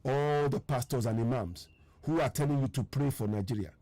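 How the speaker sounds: measured, deliberate restatement; slowly. Real, not acted. Broadcaster repeating a claim about pastors for listeners, slowly. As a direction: say it slowly, pausing between phrases. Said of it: "Let me say that slowly".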